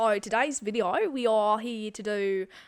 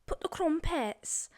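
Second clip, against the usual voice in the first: mock Welsh; 7 semitones higher, much slower than usual. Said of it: "Gavin and Stacey".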